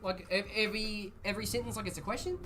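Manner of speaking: badly faked New Zealand accent with questioning upturns; attempted New Zealand accent. Streamer imitating New Zealand guys asking questions, put-on Kiwi accent. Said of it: "That's not the N Z accent, that's the Aussie accent".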